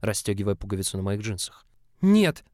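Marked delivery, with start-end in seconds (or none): 2.0-2.4 much higher, loud desperate cry; sharp, high, loud refusal. Acted. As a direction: cry out in panic. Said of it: "с трудом выдохнул я".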